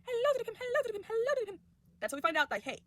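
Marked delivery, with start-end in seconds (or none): 0.1-1.6 high, loud, sing-song greeting voice; cutesy greeting. Retold or imitated. Pim greeting the younglings in a high, loud sing-song. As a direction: chirp it out, much higher than yourself. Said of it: "he's like".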